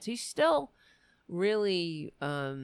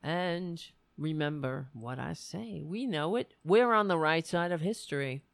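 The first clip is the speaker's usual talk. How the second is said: rally speech. Real, not acted. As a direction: build it like a campaign speech. Closing rousing speech to viewers.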